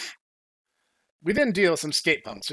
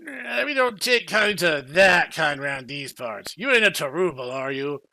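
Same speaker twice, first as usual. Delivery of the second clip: suspicious villager. Acted. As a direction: drag it out like a distrustful yokel. Villager voiced in the story.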